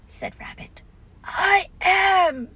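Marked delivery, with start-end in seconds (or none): 1.2-2.5 high, loud character reply; put-on bear voice in protest. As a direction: object out loud to being hushed. Pooh answers being hushed.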